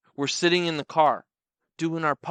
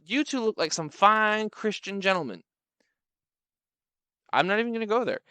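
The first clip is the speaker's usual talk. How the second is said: high, sweet-talking woman; 7 semitones higher than usual. Retold or imitated. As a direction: flatter the two men. Same woman voiced.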